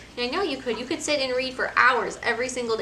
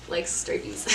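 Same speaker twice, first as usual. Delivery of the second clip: put-on toddler voice; 4 semitones lower, 7 dB quieter than usual. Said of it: "she likes".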